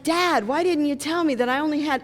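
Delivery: put-on upset kid. Sick son complaining to dad.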